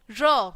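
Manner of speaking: र as a falling, isolated "ruh"; phonics sound. Shown as a demonstration. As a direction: sound out र for young learners. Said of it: "इसकी sound कैसे निकलेगी". (र को अलग ध्वनि की तरह बोलें)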